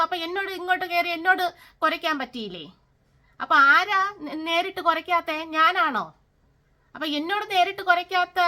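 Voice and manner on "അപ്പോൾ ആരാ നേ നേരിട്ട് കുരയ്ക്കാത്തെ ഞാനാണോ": louder, accusing questions; angry challenge. Real, not acted. Vlogger confronting neighbours who barked, angry loud questions. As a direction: demand an answer from them.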